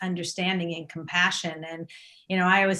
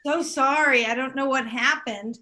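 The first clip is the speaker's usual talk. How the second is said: talking with a numb mouth; words slurred by Novocaine; numb from the dentist; 2 semitones higher than usual. Real, not acted. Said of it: "this side of my mouth is completely numb".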